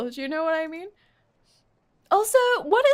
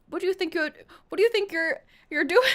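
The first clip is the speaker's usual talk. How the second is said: higher, faltering stab at British; attempted British accent; 4 semitones higher, 4 dB louder, much faster than usual. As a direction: fumble the British accent, starting over. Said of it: "I don't know how to talk British like this".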